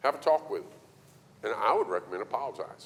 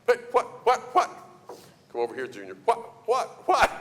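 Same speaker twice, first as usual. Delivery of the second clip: put-on high, surprised kid's what-what; startled boy; 13 semitones higher, 5 dB louder than usual. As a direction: jump like a caught child.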